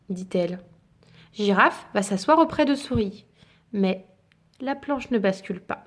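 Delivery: gentle bedtime storybook reading; story narration. A narrator's reading. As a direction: read it like a picture book to a child. Reads picture book aloud.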